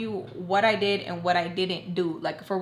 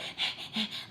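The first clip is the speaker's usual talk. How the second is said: imitated breathy noise; 10 dB quieter than usual. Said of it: "wanna listen and be like".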